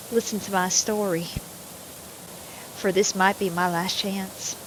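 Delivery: a light Southern voice in the style of a famous singer; playful Southern voice acting a character; southern accent. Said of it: "that's the singer's voice".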